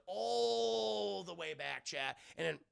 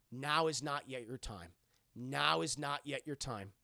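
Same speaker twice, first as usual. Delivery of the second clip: slow, lower solemn pronouncement; solemn ghost voice; 3 semitones lower, slower than usual. Retold or imitated. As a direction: intone it like a ghostly message. Ghost daughter's solemn message.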